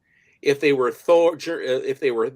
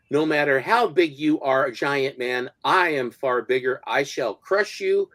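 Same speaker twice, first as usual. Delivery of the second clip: villain voice. Retold or imitated. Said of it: "with the coming of Colossus".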